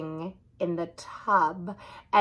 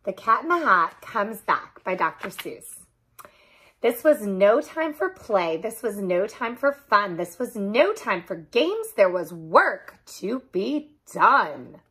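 put-on lilting read-aloud to children; sing-song storybook narration; story read-aloud. A narrator's reading. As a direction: read a rhyming picture book with lively rises and falls. Reads picture book to children.

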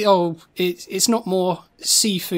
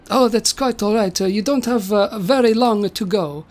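lightly voiced Italian old man; Da Vinci voice. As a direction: put on a hint of Italian accent. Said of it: "then Da Vinci's like".

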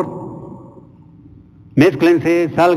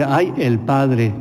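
drawn-out exclamation; much slower than usual. Retold or imitated. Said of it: "la persona que llegó ahí dice".

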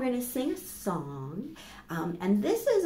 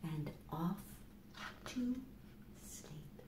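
softer and softer until breathy whisper; fading whisper; 2 semitones lower, 17 dB quieter, slower than usual. Acted. Teacher whispering the story's end so children drift off. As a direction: let the words fade into sleep.

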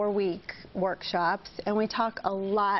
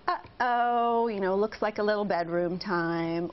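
cheerful uh-oh; slower than usual. Shown as a demonstration. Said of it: "so you're not losing your cool".

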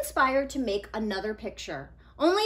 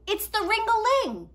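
put-on higher, louder eager boy; Nico explaining; 11 semitones higher, 7 dB louder than usual. Nico explaining his drawing to friends, eager and louder. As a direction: insist patiently.

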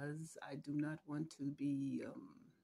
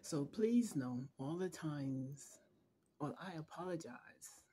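fighting not to cry while apologizing; holding back tears. Real, not acted. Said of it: "I'm trying not to cry".

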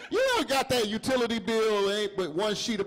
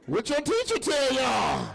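mock scolding parent; 6 semitones higher than usual. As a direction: bark the question at the kid like a fed-up parent. Parent scolding kid over homework.

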